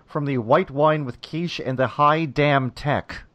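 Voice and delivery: slow, measured take on a character's line; quoting Vito. Retold or imitated. Podcast host quoting the restaurant owner, lightly imitated. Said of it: "as he put it".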